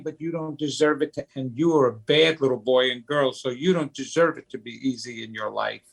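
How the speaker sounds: a hint of an inner child's self-blame; inner little kid. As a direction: rush the put-down like a wounded kid. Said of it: "your little kid is saying".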